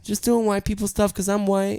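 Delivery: feminine voice. Pretend. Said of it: "This is my feminine voice".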